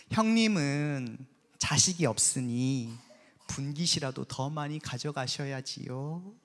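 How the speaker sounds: slow, sugary-polite mock courtesy; sly taunt. Peninnah needling Hannah with slow, sly fake politeness. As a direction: drip false sweetness while twisting the knife. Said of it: "와, 열받죠?".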